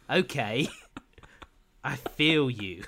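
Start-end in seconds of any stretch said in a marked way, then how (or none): 1.8-2.8 very slow, stretched I feel you; drawn-out impression. Mocking the boss's repeated line, slow and drawn out. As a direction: stretch it out, slowly. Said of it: "doing an impression of it".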